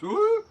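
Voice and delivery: high, loud squealing "Ooh" of a recorder overblown; recorder note overblown. Shown as a demonstration. Explaining recorder breath, imitating an overblown squeal. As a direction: squeal the note sharp like too much air. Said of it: "your note goes".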